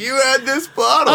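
high, excited exclamation; real astonishment. Real, not acted. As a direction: blurt it out in gleeful disbelief. Astonished reaction to friend's confession.

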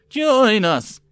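high, loud frenzied yell; crazed shout. A narrator's reading. Charging mob calling to the lady, crazed shout. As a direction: scream it like a mad mob.

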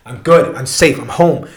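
mildly acted sense of relief; retold relief. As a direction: settle into it as if finally safe. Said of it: "I'm, like, so relieved".

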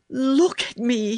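high, exultant call; thrilled storybook boy, pitched well up; triumphant cry. A narrator's reading. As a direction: call out proudly for all to see. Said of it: "he cried".

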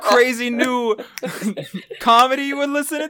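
hammed-up cousin Marvin on the phone; prank caller. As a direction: pitch the cousin's crazy comedy. Fake phone call bit.

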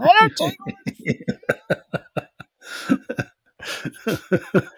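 put-on shrill squeaky teenage girl; high-pitched teen girl voice. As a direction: squeal it like a fourteen-year-old girl. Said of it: "the high-pitched fourteen-year-old girl voice".

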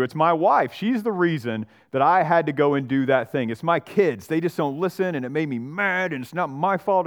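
a hint of a complaining churchgoer blaming his family; whiny excuse-maker. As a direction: whine about everyone else's fault. Pastor voices excuse-making congregant.

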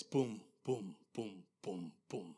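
heavy booms dropping low; imitated marching boom. Pastor retells the marching coming again, low spaced booms. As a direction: space the booms like slow footsteps. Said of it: "he heard this just marching".

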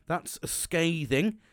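drawn out slowly, breaking into a laugh; a rereading of your own harsh email makes you laugh, said slowly. Retold or imitated. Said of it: "I reread it and go".

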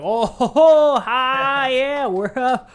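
high, loud fake jolly laughter; forced hearty laugh. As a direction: play a coughing drinker faking fun. Mocking forced fun after coughing.

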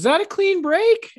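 put-on high, loud child's question; little kid voice. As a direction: ask it like a small boy. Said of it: "he used to tell me all the time".

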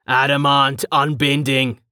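a ringing formal oath; formal salute cry. Acted. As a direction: declare it like a soldier's salute. Dominus salutes, fist to chest.

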